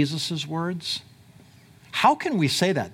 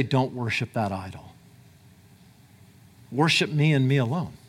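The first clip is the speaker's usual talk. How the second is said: voice of God; 4 semitones lower than usual. Retold or imitated. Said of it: "God will say".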